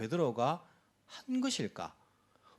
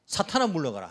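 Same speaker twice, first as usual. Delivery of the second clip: slightly louder retold rebuke; lightly acted stern command; forceful Jesus; 5 dB louder than usual. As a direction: send them away firmly. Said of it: "강하게 나오시는 거예요".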